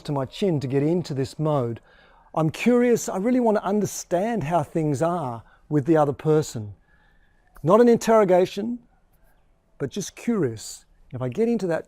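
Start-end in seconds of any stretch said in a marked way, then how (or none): 2.3-10.8 curious investigator tone, lifted at the start; gently probing, interested. Shown as a demonstration. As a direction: sound keen to understand, not interrogating. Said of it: "the curious tone of voice".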